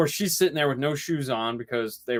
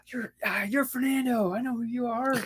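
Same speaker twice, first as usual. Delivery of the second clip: higher, hushed mock fan gushing; mock starstruck fan; 9 semitones higher, 4 dB quieter than usual. Imagined fan recognizing Fernando, mock starstruck and higher. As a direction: play a fan, lightly hammed up and awed. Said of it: "he'd have been like".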